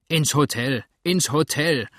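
loud bellowing chant; crowd roar. Acted. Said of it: "brüllte die Schar".

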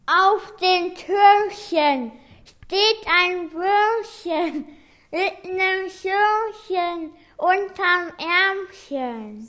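speaking around a cork between teeth; cork in mouth. Shown as a demonstration. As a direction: talk with a cork bitten. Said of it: "Jeder nimmt einen Korken in den Mund".

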